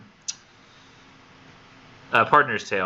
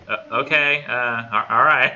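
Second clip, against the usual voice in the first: bewildered acceptance; 3 semitones higher than usual. Retold or imitated. Retold bewildered listener accepting the news.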